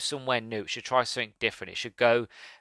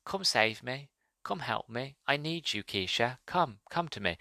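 a soft, calm ghostly plea; very calmly; 5 dB quieter than usual. Retold or imitated. Drowned brother calmly calling his sister to come save him, softly. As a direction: coax her gently, like a drowned ghost luring her. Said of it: "And he's sa-, very calmly".

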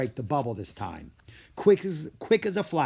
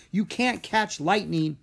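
raised, doubtful reply; 7 semitones higher than usual. Acted. Carlos tells Diego they cannot catch it, doubtful and raised. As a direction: push back in disbelief. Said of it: "Carlos asked".

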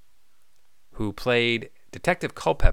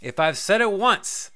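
mock exasperation; 7 semitones higher, slower than usual.

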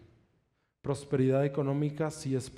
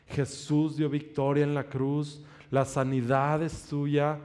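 slow, firm proclamation of healing; slow, firm prayer over his sick newborn daughter; faith declaration; slower than usual. Retold or imitated. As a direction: declare it slowly, like a prayer that commands. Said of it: "comenzaba a declarar así".

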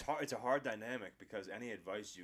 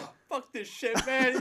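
high, loud frustrated swearing; high-pitched angry outburst; 14 dB louder than usual. Retold or imitated. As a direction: suddenly drop the pro voice and whine loudly. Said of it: "And then he changes his voice".

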